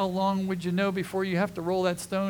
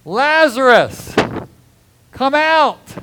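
huge, commanding high shout; full-force shouted summons, stretched out; loud cry; 10 semitones higher, 16 dB louder, slower than usual. Acted. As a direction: bellow it to wake the dead. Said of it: "Jesus cried in a loud voice".

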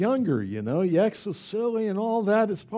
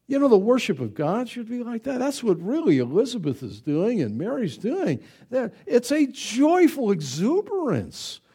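ordinary talk, nothing marked

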